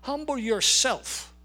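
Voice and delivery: slow, gentle, pleading. Acted. Preacher repeats the command softly.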